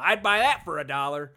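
loud, lightly hammed-up TV pitchman; wacky commercial guy. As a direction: imitate a catchphrase from a silly advert. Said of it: "like, a wacky commercial".

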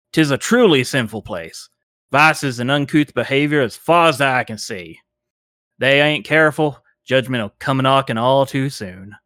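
lightly voiced preacher warning of judgment; a touch of a fire-and-brimstone stranger; doom-saying zealot. GM as the cultist warning the party off the town, mild sermon tone.

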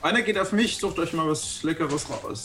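a boozy host raising his glass; tipsy Mister Johnson. Acted. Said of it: "kommt dazu und sagt".

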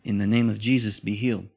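firm command in Jesus' name; commanding healing prayer. Shown as a demonstration. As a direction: speak it with authority, not asking. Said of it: "and you're saying".

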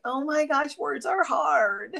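high, slow mock lament; little voice. Shown as a demonstration. Co-host redoing her catchphrase on request, little whiny voice. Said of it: "that little voice that you just did".

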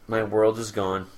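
mock moping. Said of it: "Moping like crazy".

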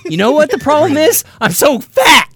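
high laughing self-mockery. Real, not acted. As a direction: laugh through the words. Laughing at his own joke.

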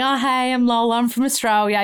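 eager-to-please actor's hello; winning audition slate. Acted. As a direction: introduce yourself to win over casting. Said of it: "trying to kind of win them over".

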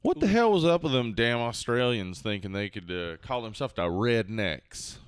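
lightly put-on country redneck grumbling; redneck character. Redneck griping to his buddy about Australian rednecks.

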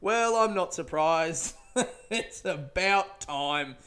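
slow, dry and unbothered; deadpan resignation. Retold or imitated. Dad shrugging off a meteor strike, slow deadpan. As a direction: slowly say the world ending is overdue.

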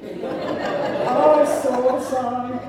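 high, slow laughing awe; laughing wonder. Retold or imitated. Father retelling first sip of son's coffee, laughing amazement. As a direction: laugh it out like a revelation.

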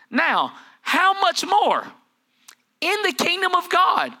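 slow, high, hushed emphasis; dramatic slow question. Real, not acted. Preacher stretching the point to the congregation. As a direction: draw it out for effect.

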